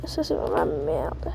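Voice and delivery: hushed frustrated whisper. Real, not acted. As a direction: breathe it out under the breath. Frustrated aside under breath.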